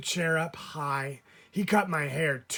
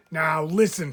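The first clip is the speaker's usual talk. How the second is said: louder firm now listen; firm mom; 6 dB louder than usual. Acted. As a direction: mom putting her foot down. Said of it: "she said to the barber".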